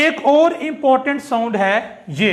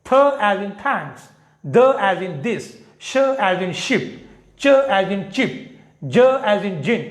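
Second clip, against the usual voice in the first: th as in thanks through j as in gin, very slow and deliberate; slow recitation drill; 2 semitones lower, much slower than usual. Shown as a demonstration. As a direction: recite the hard sounds slowly for practice. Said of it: "खासकर ये जो मुश्किल sounds हैं".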